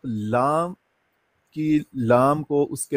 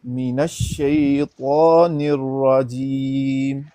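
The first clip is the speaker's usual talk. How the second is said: drawn-out tajweed recitation for the student to copy; slow Quran recitation; 3 dB louder, much slower than usual. Shown as a demonstration. Teacher recites slowly for the student to repeat. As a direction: recite slowly, stretching each vowel. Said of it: "تا مفخم".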